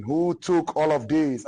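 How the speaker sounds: king shouting at whoever took his things; mock screaming. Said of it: "He started screaming".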